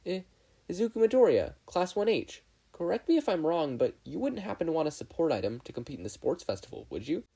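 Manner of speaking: put-on nervous young inventor stammering his name; shaky nervous boy. A narrator's reading. Boy nervously introducing himself to a girl, shaky. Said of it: "slightly shakier than hers".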